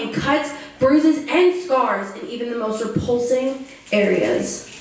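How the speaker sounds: earnest first-person poetry recital; solemn, rhythmic performance; spoken-word poem. Acted. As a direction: recite a survivor's testimony in measured phrases.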